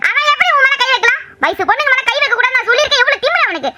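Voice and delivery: outraged. Acted. Mother outraged that her son hit his sister. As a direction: blast him in outrage.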